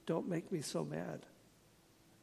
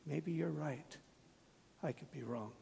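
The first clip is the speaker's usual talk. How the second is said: gentle humble phrase; 5 dB quieter than usual. Shown as a demonstration. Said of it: "Just stop and say".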